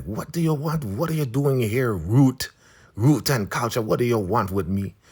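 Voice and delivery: high-pitched imitation of a wary matriarch; suspicious elder woman. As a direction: question the visitor sharply in a high voice. Marva voiced confronting Ruth.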